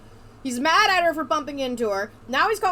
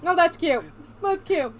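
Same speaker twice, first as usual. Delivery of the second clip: higher-pitched, tickled reaction; delighted gushing; 5 semitones higher than usual. Real, not acted. Player gushes over a cute moment, higher and delighted.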